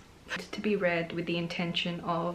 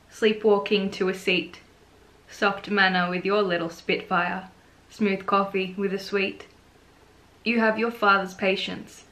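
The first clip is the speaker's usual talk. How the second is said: measured reading with pauses between lines; poetry reading. Acted. Author reading own poem to viewers, measured poetry reading. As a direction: recite it line by line, unhurried.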